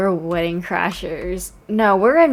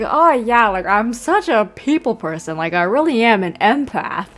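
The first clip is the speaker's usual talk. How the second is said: mock self-satisfied people person; gushing, ending near a laugh; self-styled empath impression. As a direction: lightly parody someone proud of their empathy. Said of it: "Ippei's the type of person to be like".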